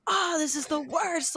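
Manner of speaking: high, drawn-out put-on complaint; mock sulking. Imagining someone sulking after a wreck, mock miserable. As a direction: wail it slowly like a pretend sulker. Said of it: "Being shitty".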